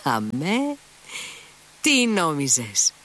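mild joyful shout, slowed. A narrator's reading. Kolya answering the boy, mild happy shout. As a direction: proudly call it out. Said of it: "φώναξε με όλη του τη δύναμη".

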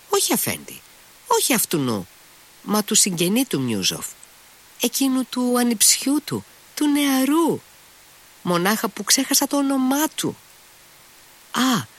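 high, eager servile innkeeper voice; fawning innkeeper. A narrator's reading. Innkeeper answering his master Mitya, high and eager. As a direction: pitch it up like an obsequious innkeeper.

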